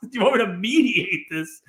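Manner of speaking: disbelieving, laughing echo; a laughing, stunned echo; incredulous. Retold or imitated. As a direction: repeat it back in disbelief. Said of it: "And you're like".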